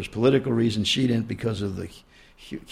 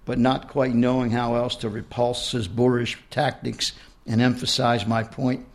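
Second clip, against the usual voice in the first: reading her own book aloud; story narration. A narrator's reading. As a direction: read it out like an author at a reading.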